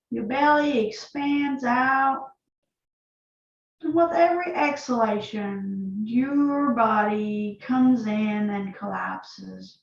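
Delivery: calm, unhurried yoga instruction with long pauses; guided yoga practice. Acted. Yoga teacher leading students through breath and neck stretches, calm guiding voice.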